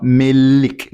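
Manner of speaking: 'milk' as 'mil-lik', holding a clear L; light L, wrongly. Shown as a demonstration.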